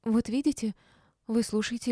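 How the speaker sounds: high, beaming, self-satisfied; radiant. A narrator's reading. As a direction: press the point brightly. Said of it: "лучезарно заискрилась Валеева и обратилась ко мне". (лучезарно, повыше)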